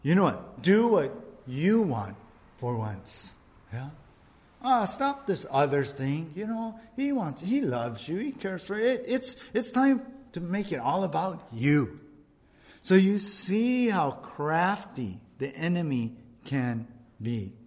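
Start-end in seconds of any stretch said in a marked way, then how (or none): 0.0-12.0 lightly voiced tempter; Satan tempting. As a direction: slip it in, persuasive and sly. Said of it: "Satan comes".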